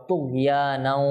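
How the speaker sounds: slow তুগিয়ানাও with a throaty Arabic gh; distinct ghayn. Shown as a demonstration. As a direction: draw out তুগিয়ানাও, sounding the ghayn fully. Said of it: "এখানে গইন যেন ঠিকভাবে উচ্চারণ হয়". (তুগিয়ানাও-তে গইন স্পষ্ট)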